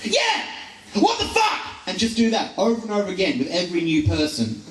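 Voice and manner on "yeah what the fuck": high, chirpy fake-polite greeting turning to outrage; mock cheery phone voice. To the phone company, high sarcastic cheer. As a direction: squeak it out brightly then swear. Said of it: "I get to say something along the lines of".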